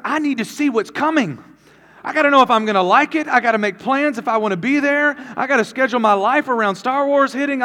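loud, high, fervent comic tirade; hammed-up exasperated husband; mock frustrated rant. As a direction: plead your case at full tilt. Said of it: "I am frustrated, and I am upset".

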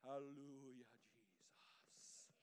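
low, hushed televangelist impression; Benny Hinn. Preacher mimicking an evangelist on stage, hushed mock reverence. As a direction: intone it softly, trailing into a whisper. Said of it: "You know Benny Hinn".

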